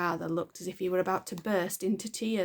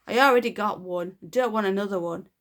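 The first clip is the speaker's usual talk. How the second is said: dismissive; 7 dB louder, faster than usual. Acted. Girl refuses bluntly.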